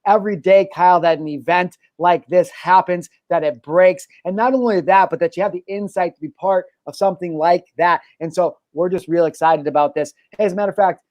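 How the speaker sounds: light mock anchor tone; playful breaking news delivery; newscaster voice. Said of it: "that was, like, my newscaster voice".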